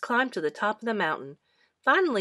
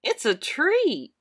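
Boots voice; 6 semitones higher, 5 dB louder, slower than usual. A narrator's reading. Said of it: "said Boots".

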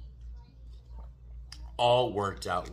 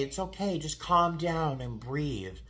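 mock soothing; 4 semitones higher than usual. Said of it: "people would just say".

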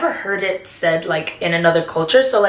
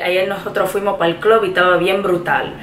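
Puerto Rican accent; faster than usual. Shown as a demonstration. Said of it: "Like, you could say".

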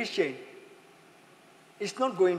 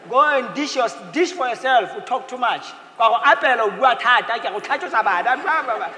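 mock nagging wife; 5 dB louder than usual. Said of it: "Will you say that".

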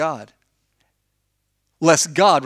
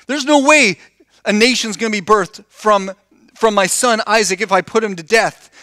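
voicing doubting Abraham; 4 semitones higher than usual. Abraham's inner doubt voiced.

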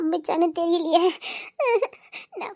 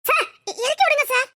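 half-hearted plea; 6 semitones higher than usual. Acted. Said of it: "இஷ்டமே இல்லாம சொன்ன மாதிரிலாம் இருக்குதே".

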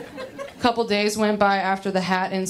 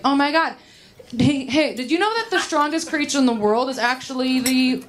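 eager blurt; 5 semitones higher than usual. Retold or imitated. Blurting fact mid-sex.

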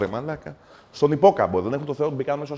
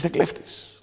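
whispered officer voice; 7 semitones higher, 3 dB quieter than usual. Retold or imitated. Voicing tax officer.

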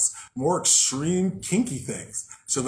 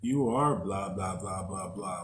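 sweet nothings; 3 semitones lower, 5 dB quieter than usual. Retold or imitated. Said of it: "feed you sweet nothings and be like".

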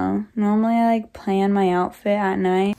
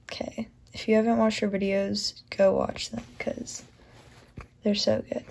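soft bedtime whisper; quiet at night; 2 semitones lower, 8 dB quieter than usual. Real, not acted. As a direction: keep it hushed, late night. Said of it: "Sorry I'm talking really quiet".

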